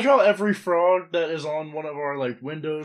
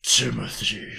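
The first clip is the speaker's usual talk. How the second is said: half-asleep murmur of the name; mild sleep-talk; 5 semitones lower, slower than usual. Retold or imitated. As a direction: say it like you just woke up. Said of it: "I woke up one night".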